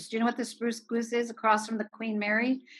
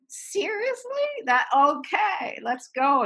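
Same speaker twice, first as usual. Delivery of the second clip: high, slow disbelief on Seriously, then a resigned okay; a stunned pause before caving in; high, slow mock disbelief; incredulous; 8 semitones higher, slower than usual. Agreeing to a hundred night shoots.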